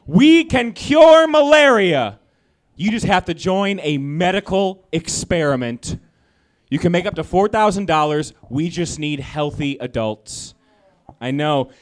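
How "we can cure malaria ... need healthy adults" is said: ad voice read. Retold or imitated. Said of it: "It said".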